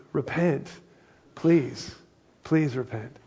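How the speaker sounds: a tender, imploring hint of Jesus; pleading gently. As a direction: beg them kindly to turn back. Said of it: "his tone here".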